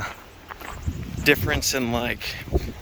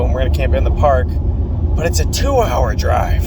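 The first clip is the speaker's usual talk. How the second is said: loud; 6 dB louder than usual. Real, not acted. Talking over loud car noise.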